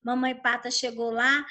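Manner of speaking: usual speaking voice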